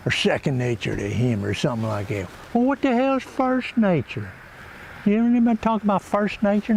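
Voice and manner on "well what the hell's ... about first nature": incredulous. Acted. Mock outrage at a saying.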